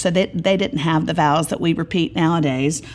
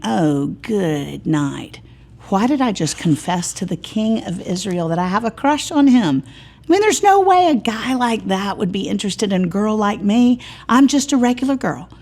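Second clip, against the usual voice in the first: a regular girl panicking at her own confession, lightly voiced; lightly voiced bride-to-be fretting; flustered young woman; 4 semitones higher than usual. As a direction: pitch climbs higher as she frets, a light girlish worry. Shulamith's panicked inner thoughts voiced.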